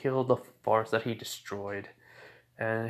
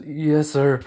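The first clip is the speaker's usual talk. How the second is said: loud, raised-pitch soldier's reply; dutiful acknowledgement; 5 semitones higher, 9 dB louder than usual. Acted. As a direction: answer your commander promptly and loudly. Subordinate answers his superior's order.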